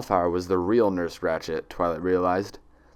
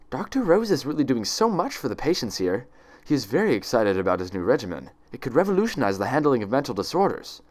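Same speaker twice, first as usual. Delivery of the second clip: honest excitement; 5 semitones higher than usual. Acted. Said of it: "honest excitement creeping into Ratchet's voice".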